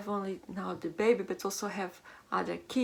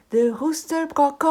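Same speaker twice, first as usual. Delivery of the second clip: animal impressions; 4 semitones higher, 10 dB louder than usual. Shown as a demonstration. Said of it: "a lot of sounds from the, the animals".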